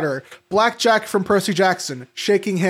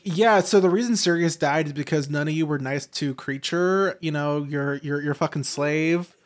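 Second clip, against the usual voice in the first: lightly voiced Dumbledore, low and quiet; a hint of a lecturing headmaster, pitched down and soft; low, understated telling-off in imitation; mock Dumbledore; 5 semitones lower, 6 dB quieter than usual. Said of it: "Dumbledore is like".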